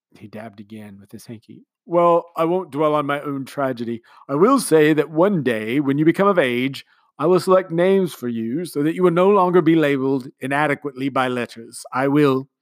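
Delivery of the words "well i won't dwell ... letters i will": commander's speech. A narrator's reading. Commander speechifying to the household, sentimental. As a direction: speak like a sentimental host.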